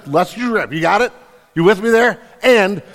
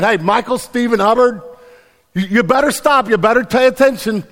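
raised pitch, calling the full name like mama; stern mama warning; 5 semitones higher than usual. Acted. Author warning readers like a mama using full names, stern and insistent. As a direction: warn firmly as a scolding parent, pitched up. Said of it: "this is the author's way of saying".

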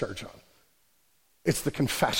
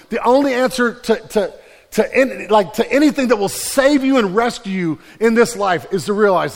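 preaching; 5 semitones higher, 5 dB louder than usual. Real, not acted. Preaching climax.

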